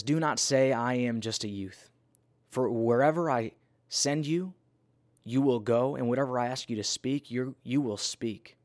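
measured, emphatic Bible reading; scripture reading. Acted. Reads scripture aloud.

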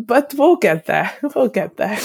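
laughing nervously through the words; uneasy little laugh while talking. Real, not acted. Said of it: "Having a nervous laugh right now".

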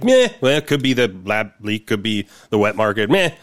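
dismissive meh. Retold or imitated. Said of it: "We're just like".

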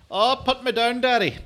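very high, far put-on voice begging to be put down; mock squeaky plea.

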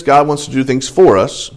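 "for" leaned on as the key word; stress on "for". Shown as a demonstration. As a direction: make "for" stand out before "us". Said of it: "remember what I said at the very beginning".

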